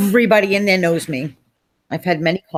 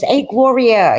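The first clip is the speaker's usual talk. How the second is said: higher, louder friendly hello; cheery greeting; 5 semitones higher, 6 dB louder, slower than usual. Retold or imitated. Unknown clerk greets Gloria as a friend, loud bright hello. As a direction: greet her like an old pal. Stranger greets her warmly.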